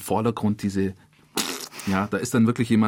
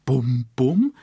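mock drumbeat booms, a bit louder; imitating drum beats; 2 semitones higher, 5 dB louder than usual. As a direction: thump it out like the score's drums. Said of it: "Die wird dann so richtig bam".

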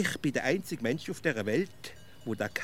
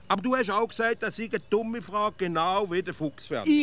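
high, louder reproach; indignant accusation; 8 semitones higher, 5 dB louder than usual. Acted. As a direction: throw the other's words back at them. Accuses friend in a quarrel.

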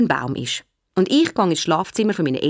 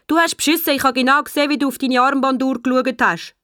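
raised, higher schoolboy voice; accusing call; 6 semitones higher than usual. Acted. Boris accuses Willi of cheating, calling out. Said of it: "ruft der Boris".

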